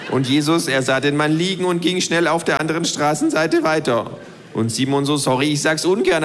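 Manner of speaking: the know-it-all kangaroo lecturing. Acted. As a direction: voice the kangaroo, lightly. Kangaroo's long Jesus parable.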